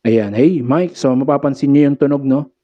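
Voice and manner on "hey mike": dulled mic check lacking clarity; treble cut. Shown as a demonstration. Sound tech showing treble turned down, unclear voice. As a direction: test the mic with the highs removed. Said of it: "nawalan ng pagka-clarity".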